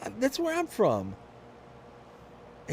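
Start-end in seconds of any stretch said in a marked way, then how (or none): 0.1-1.2 excited reveal. Retold or imitated. Retold own reply.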